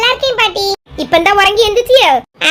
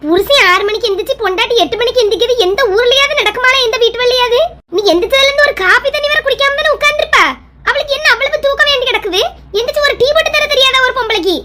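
loud-mouthed complaining. Acted. Mother grumbling to son about his late-sleeping wife, indignant complaint. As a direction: rail in outraged rhetorical questions. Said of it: "ஏன் கிடந்து அலறிட்டு கிடக்கா".

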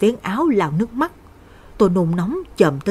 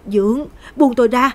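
a frightened cry, higher and louder; pleading; 5 semitones higher, 4 dB louder than usual. Acted. Girl struggling against her stepfather, frightened plea. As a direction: begin to panic, push him away. Lan fighting off attacker.

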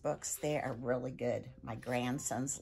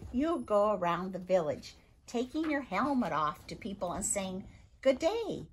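higher, mock-exasperated Viking father; 7 semitones higher than usual. Viking father scolding son's politeness, exasperated. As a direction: despair over a son who's too nice.

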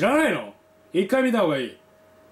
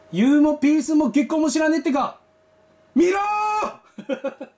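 shouting; 5 semitones higher than usual. Real, not acted. Urging viewers to watch.

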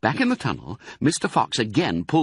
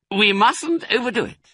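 high, drawn-up warning; cautioning fox; 4 dB louder than usual. Acted. Fox cautions the others at the hoard, high-voiced. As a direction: rein in the greedy party.

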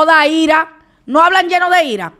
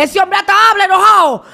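loud, high jab; loud mockery; 6 semitones higher, 4 dB louder, faster than usual. Mocking the rival preacher's anger, loud and high. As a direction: shout the taunt.

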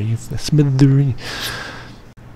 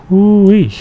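excited whoop; 6 semitones higher, 4 dB louder than usual. Real, not acted. Excited whoop at big figure.

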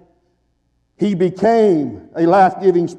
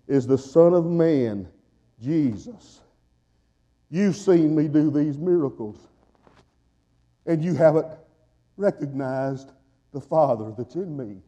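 hushed preaching; 3 semitones lower, 6 dB quieter than usual. Real, not acted. Preacher drops to near hush.

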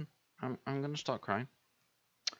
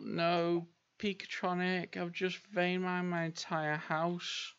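high, drawn-out wail; mock lament; 6 semitones higher, slower than usual. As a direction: wail it slowly to a friend. Lamenting to a fellow player.

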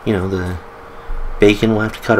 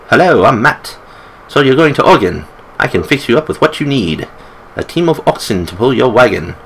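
put-on lightly done British accent for the old storekeeper; a hint of a British accent, friendly old shopkeeper selling supplies. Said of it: "I don't know why I make him British".

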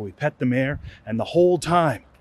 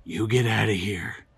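lower, slow held-back scold; angry scold; 6 semitones lower, slower than usual. Retold or imitated. Dad scolding the horse in a low slow scold. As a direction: point a finger and spit out wimp. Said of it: "he goes".

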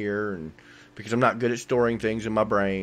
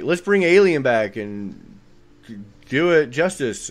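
eager filmmakers; 2 semitones higher, 6 dB louder, slower than usual. Acted. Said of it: "where they're like".

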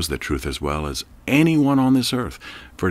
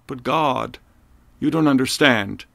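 yelling up; 6 semitones higher than usual. Acted. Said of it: "he yelled up".

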